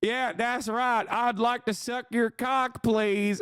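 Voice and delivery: mocking imitation of a flirty TikTok; mock sultry voice. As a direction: parody the creator's come-on, slow and high. Mocking a crude TikTok line.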